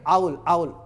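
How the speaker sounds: आउल said for Rahul, r swallowed; r dropped. Shown as a demonstration. Teacher showing the wrong way, r swallowed. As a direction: say आउल, no r sound at all. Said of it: "जो रॉ को घोट जाएंगे".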